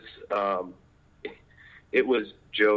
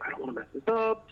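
mock nervous; 12 semitones higher, 4 dB quieter, faster than usual. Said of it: "it's still terrifying to me".

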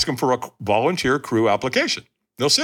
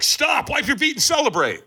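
catchers calling out; 13 semitones higher than usual. Retold or imitated. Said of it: "they're like".

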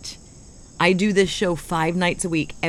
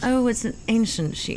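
British put-on, raised pitch; mock British accent; 5 semitones higher than usual. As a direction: sigh it like a prim Brit. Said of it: "try an accent to say ancient sheep".

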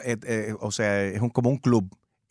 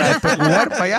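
playful echo; 8 semitones higher, 6 dB louder than usual. Real, not acted. Repeats co-host's line laughing.

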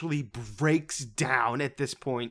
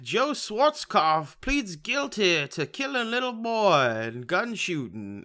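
mock headline read; 6 semitones higher, slower than usual. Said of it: "movie ends with them being like".

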